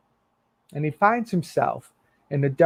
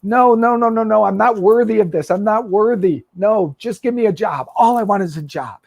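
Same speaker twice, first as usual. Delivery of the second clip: high, loud and hurried no no no; frantic protest; 5 semitones higher, 4 dB louder than usual. Acted. Son refusing the father's embrace, frantic and pleading. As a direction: son pushing his father's welcome away, high and loud. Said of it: "He's like".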